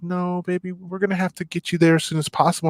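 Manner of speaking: put-on soft, gentle older nurse; softly reassuring a stubborn patient. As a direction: coax him kindly, softly. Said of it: "she's very gentle with me".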